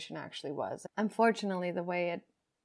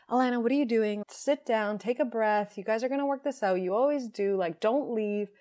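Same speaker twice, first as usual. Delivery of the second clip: louder, urgent pleading, somewhat hurried; panicked pleading; 3 semitones higher, 4 dB louder than usual. Retold or imitated. Scared inner voice begging her not to leave, mildly panicked. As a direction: beg herself to stay, anxious and rushing. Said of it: "like, completely panicked".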